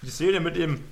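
talking around a mint in the mouth; sucking a hard candy. Real, not acted. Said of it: "ich lutsche gerade einen Minz".

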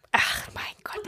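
exasperated whisper. Real, not acted. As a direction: sigh it under your breath. Exasperated aside at chaos.

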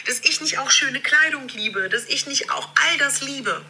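re-recorded video audio; low quality stream. Real, not acted. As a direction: sounds played off a phone video. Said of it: "die ich wiederum hier wieder nochmal aufnehme".

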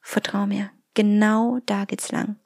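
soft intuition voice; soft inner voice. Acted. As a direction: coax like a quiet inner voice. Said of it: "diese leise Stimme sagt".

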